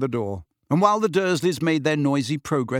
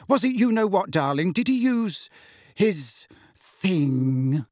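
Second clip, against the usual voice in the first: high fearful mother; Aunt Petunia; 5 semitones higher than usual. Acted. Mother asking son fearfully, a touch high. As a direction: ask with dread.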